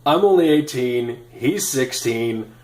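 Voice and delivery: loud, laughing, hurried denial; flustered protest. Retold or imitated. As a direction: blurt it out, embarrassed and amused. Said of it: "And I said".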